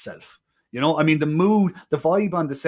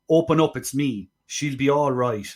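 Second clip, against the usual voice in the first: mock Deep South accent. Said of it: "he couldn't say".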